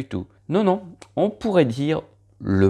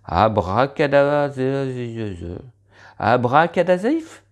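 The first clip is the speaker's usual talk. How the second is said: magician incantation. Pretend.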